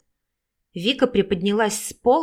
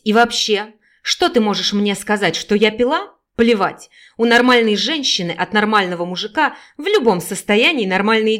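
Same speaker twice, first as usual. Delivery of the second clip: loud, berating mother; angry tirade; 4 dB louder than usual. Acted. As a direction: lash out at the daughter. Drunk mother berating her daughter. (злая мать кричит на дочь)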